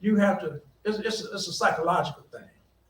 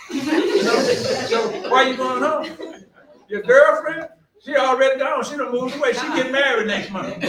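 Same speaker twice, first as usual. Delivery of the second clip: higher, laughing mock lecture to a player; teasing, laughing; 4 semitones higher than usual. Coach teasing a homesick player, laughing. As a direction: tease him with a laugh in the voice.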